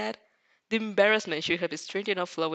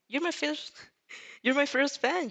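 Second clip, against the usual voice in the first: high, teasing and hammed-up; high mock-proud brag with a laugh; exaggerated; 8 semitones higher than usual. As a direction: overplay it like a cocky flirt. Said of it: "He hopes exaggeratedly".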